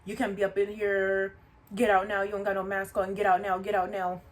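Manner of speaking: loud, rude bursts on each get out now; aggressive orders. Retold or imitated. Coworker ordering the customer out again, aggressive and loud. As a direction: hammer the order home, mimicking the coworker. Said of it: "so rude and aggressive about it".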